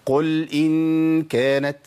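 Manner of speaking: قل إن كانت mit zu lang gehaltenem إن; wrong long hold. Shown as a demonstration. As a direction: drag out the نون of إن كانت too long. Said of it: "طب الخطأ فين يا عم الشيخ".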